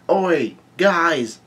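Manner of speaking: lightly called out, pitch lifted; Luffy. Acted. Luffy calling to the Den Den Mushi, mild mock yell. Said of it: "Luffy yells out".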